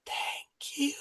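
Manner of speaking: creepy whispered character voice; fully hushed, eerie whisper. Acted. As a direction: whisper it softly and slowly into their ear. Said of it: "she just whisper".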